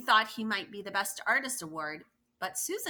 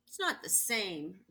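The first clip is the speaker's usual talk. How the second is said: quiet sad answer. Acted. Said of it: "answered quietly".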